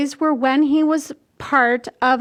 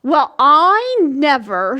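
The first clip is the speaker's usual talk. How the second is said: disapproving; 4 dB louder than usual. Acted. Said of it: "said another square, shaking her head".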